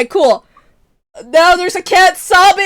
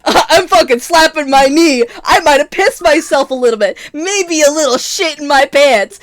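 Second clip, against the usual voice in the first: sarcastic. Acted. Streamer mocking a sexist meme with dry sarcasm. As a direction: overplay how hilarious it is. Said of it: "That was so funny".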